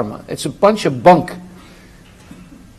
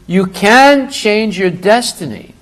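normal talking voice

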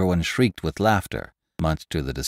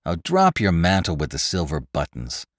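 impatient cut-off. Acted. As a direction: brush him off and cut him short. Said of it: "said the cloth merchant, taking the word out of his mouth".

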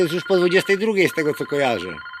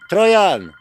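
louder shout of the nickname; calling out; 2 semitones higher, 5 dB louder than usual. Real, not acted. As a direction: call him sharply by name. (głośne wołanie)

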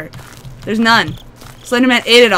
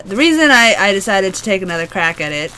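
hoarse voice. Real, not acted. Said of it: "I do sound like a smoker".

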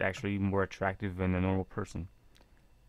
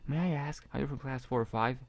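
put-on light girl voice; 6 semitones higher than usual. Voicing girl character asking.

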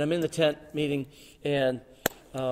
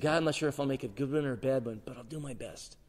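softer, humble prayer; quiet surrender; 6 dB quieter than usual. Retold or imitated. Young man surrendering to God, quietly humble. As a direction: yield gently.

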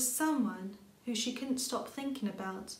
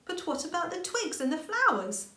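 high, small rabbit voice; a curious child rabbit asking; little rabbit voice; 7 semitones higher, 4 dB louder than usual. A narrator's reading. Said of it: "Little Rabbit asked".

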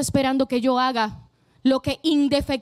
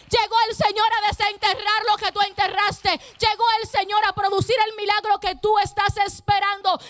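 rising sermon cadence, every "llegó" punched; fiery preaching; 4 semitones higher than usual. Acted. Pastor declaring to the church that the Lord arrived, preaching hard. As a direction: build it like a revival preacher.

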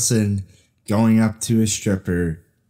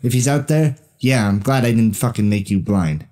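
Mark Wahlberg impression. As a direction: bark it like a hotheaded little bruiser. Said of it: "Mark Wahlberg".

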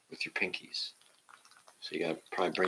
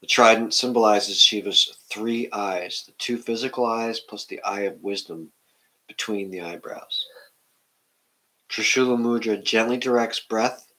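measured, louder reading of a book passage; reading aloud; 4 dB louder than usual. Acted.

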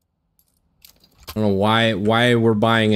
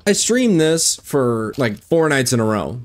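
usual speaking voice

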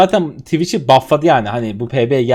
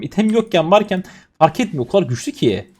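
normal talking voice

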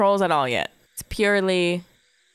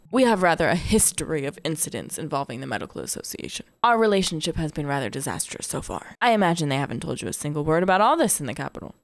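lower, measured character read; lightly voiced mayor, formal and lower; explanatory mayor; 3 semitones lower than usual. Mayor explains past trouble to the newcomer, low and formal.

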